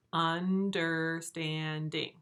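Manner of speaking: understanding drawn out very slowly into four beats; un-der-stand-ing, very slow; slow syllable demo. Shown as a demonstration. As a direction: stretch every beat of understanding. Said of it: "has four syllables".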